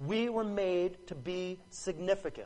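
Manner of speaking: "we" stressed with falling tune.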